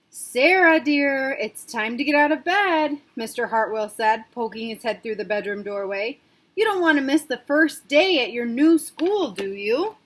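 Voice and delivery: gentle father. Acted. Father waking Sarah for her first day, lightly coaxing. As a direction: coax a sleepy child out of bed. Dad wakes Sarah for school.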